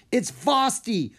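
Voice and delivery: high, loud, slow cry of warning; alarmed yell. A narrator's reading. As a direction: warn everyone at full voice. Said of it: "she yelled".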